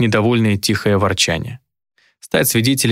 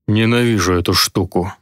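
low looming threat. Acted. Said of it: "Колдун раздражённо тряхнул рукой".

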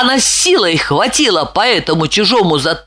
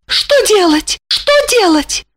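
high frightened voice; panicking, rushing about; high anxious cry; panicked; 12 semitones higher than usual. A narrator's reading. Lipochka panics at a burglar.

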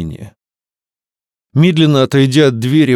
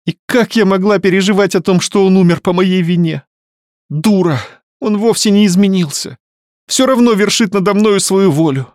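moaning; 8 semitones higher than usual. Acted. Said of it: "простонала".

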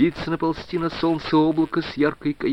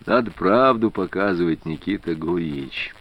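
soft, coaxing and quieter; gentle; 5 semitones lower, 4 dB quieter than usual. A narrator's reading. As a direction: talk him round gently. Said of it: "мягко сказал Прохоров". (мягко, уговаривающе)

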